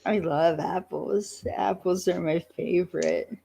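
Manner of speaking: deadpan monotone with no lift. Retold or imitated. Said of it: "monotone voice".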